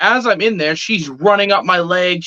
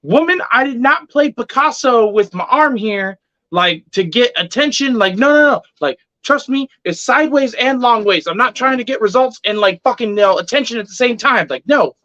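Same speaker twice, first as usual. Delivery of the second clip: retold protest, pitched up; emphatic, higher-voiced self-defence; indignant denial; 4 semitones higher than usual. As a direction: defend yourself in exasperation. Acted protest at stranger's accusation.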